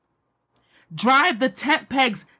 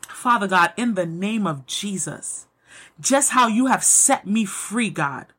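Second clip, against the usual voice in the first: earnest spoken prayer over the listeners; heartfelt closing prayer. Acted. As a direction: pray it sincerely, steady and intimate.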